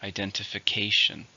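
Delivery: "Identification" with the weight on CA; stress on fifth syllable. Shown as a demonstration. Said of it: "stresses on the fifth syllable".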